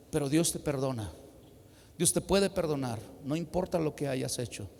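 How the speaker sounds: low, soft pastoral counsel; retold gentle reassurance. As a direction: quietly assure someone they can be forgiven. Pastor retells reassuring a repentant killer.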